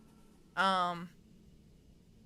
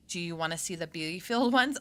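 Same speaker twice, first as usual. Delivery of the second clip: put-on Southern accent; 4 semitones lower than usual. Streamer offering to show bee-filled bodies, playful Southern accent. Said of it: "or my southern accent".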